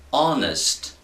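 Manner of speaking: "honest" said with a silent H, starting on an O sound. Shown as a demonstration. Teacher showing students the silent H in "honest", careful pronunciation. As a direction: drop the H, open "honest" straight on the O vowel. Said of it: "mas que me soa O".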